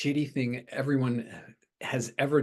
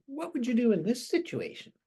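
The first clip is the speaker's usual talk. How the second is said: high-pitched mock self-questioning; exaggerated high quoted voice; Crispy; 13 semitones higher, 3 dB louder than usual. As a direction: put on a much higher voice for the imagined question. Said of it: "That's not Crispy saying".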